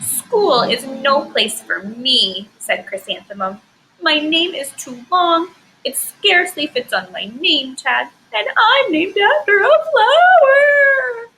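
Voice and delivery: slow and tearful, breaking high and loud at the end; sad, crying voice. Shown as a demonstration. Teacher voicing Chrysanthemum sad about her long name, crying. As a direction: sob it out like a teased little girl. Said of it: "my voice sounds sad".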